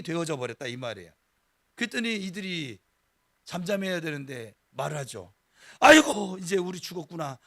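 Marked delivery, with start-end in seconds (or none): 5.8-7.4 despairing wail. Retold or imitated. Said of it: "원망과 불평이 절로 나옵니다".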